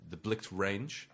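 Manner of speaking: deadpan clerk. Acted. Ikea clerk role.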